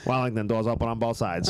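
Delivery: automated train announcement voice. Retold or imitated. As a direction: read it like a subway PA. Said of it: "I do the announcement for Wellington".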